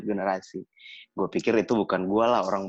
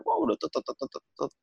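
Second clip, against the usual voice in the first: imitated scolding noise; 12 semitones higher than usual. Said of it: "Keluar tuh bahasa rohnya mama".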